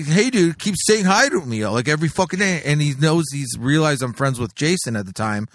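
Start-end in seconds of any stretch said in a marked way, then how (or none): 0.0-2.6 tag. Retold or imitated. Club owner complaining in retold story.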